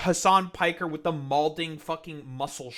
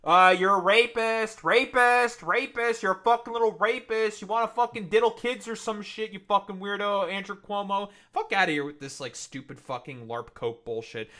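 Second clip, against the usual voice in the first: angry rant; 2 semitones higher, 5 dB louder than usual. Real, not acted. Ranting at a politician on screen.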